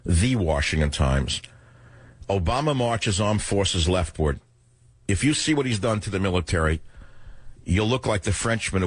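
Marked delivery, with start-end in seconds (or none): 2.3-4.4 headline read. Shown as a demonstration. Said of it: "there's an article from Washington Times".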